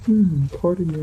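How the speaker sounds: yawning while talking; stifling a yawn. Real, not acted. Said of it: "I'm yawning".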